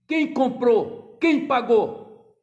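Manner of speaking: loud, very slow, each word pressed; indignant challenge. Retold or imitated. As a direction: hammer the questions home. Preacher re-voices father.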